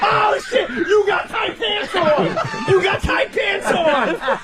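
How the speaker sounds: high, slow, laughing whoops; mock hysterics. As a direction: howl the taunt as if too funny to bear. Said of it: "'cause it's too funny to sit still".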